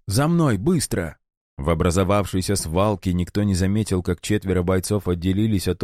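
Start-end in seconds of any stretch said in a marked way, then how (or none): 0.1-1.2 urgent call. A narrator's reading. Alex urging escape.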